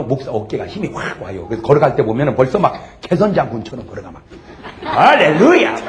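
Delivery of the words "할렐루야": loud, high hallelujah call; exultant, raised-voice praise shout; rousing call. Real, not acted. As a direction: call out to rouse the congregation. Preacher calls out to congregation.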